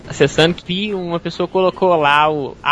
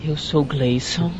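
voz sensual; 3 semitones lower, slower than usual. Shown as a demonstration. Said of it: "Não, fala assim".

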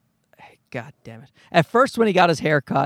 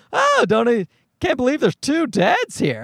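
amazed minister; 5 semitones higher than usual. Retold or imitated.

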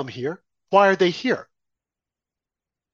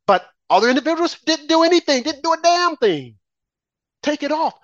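much higher and louder; exasperated raised voice; angry outburst; 9 semitones higher, 3 dB louder than usual. Real, not acted. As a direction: shout it down. Heated rant peak.

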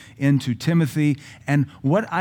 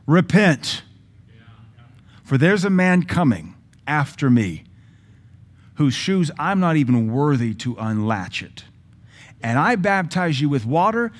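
fiery John the Baptist; 3 semitones higher, slower than usual. Retold or imitated. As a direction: thunder a warning to repent. John the Baptist preached loudly.

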